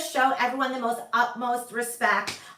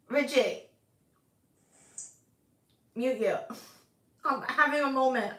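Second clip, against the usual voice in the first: mock upset; 3 semitones lower than usual. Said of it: "I'm just really upset".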